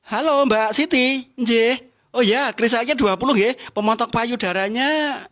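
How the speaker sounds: loud, showy phone chatter meant to be overheard; loud phone talk. Retold or imitated. Wife faking a phone order to impress guests, loud and showy. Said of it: "Ngomongnya keras".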